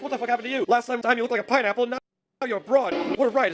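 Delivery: hammed-up "what happened to you" disbelief; mock incredulity. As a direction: imitate a baffled, taunting outburst. Hulk mocks transformed Ben, acted.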